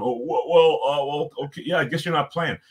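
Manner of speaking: lightly voiced flustered coach, stammering; mock the coach caught out, hemming and hawing; a hint of a nervous coach fumbling for words; squirming coach. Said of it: "you can just see him squirm".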